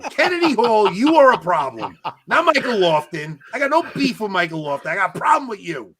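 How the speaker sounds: loud, emphatic accusation; screaming rant. Real, not acted. Confronting a rival podcaster on air, screaming. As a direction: call him out at full volume. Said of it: "just please stop screaming".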